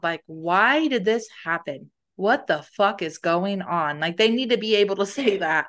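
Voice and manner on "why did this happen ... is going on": slow, emphatic venting; mildly acted, drawn-out exasperation; venting out loud. Friend venting unanswerable questions, slow acted frustration. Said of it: "They just need to say it out loud".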